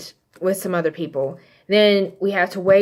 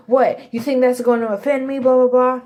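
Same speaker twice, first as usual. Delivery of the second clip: retold defiant comeback, pitched up; mock indignant; 5 semitones higher than usual. Rival challenges husband over trampled roses, mock indignant. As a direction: imitate an unimpressed rival, lightly heated.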